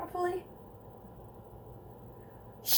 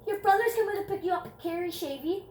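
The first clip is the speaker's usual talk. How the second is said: imitating the desk lady; 8 semitones higher than usual.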